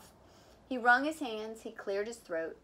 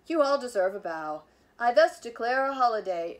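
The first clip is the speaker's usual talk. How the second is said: proclaiming; 8 dB louder than usual. A narrator's reading. Principal's proclamation.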